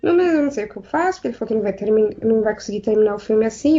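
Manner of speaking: mildly frantic, fast retelling; retold desperation. Producer to the crew about an unfinished film, mock desperate. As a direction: rush it out like a flustered producer. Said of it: "toda desesperada, chorando, falando".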